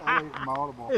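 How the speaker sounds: high, loud protest through laughter; laughing. Real, not acted.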